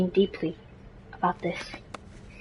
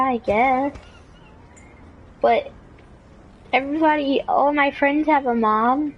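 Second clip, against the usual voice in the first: high, slowing comic whine; plaintive complaint; 7 semitones higher than usual. Acted. Son telling mom that friends have moms, high plaintive whine. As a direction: complain to mom in a raised, stretched-out voice.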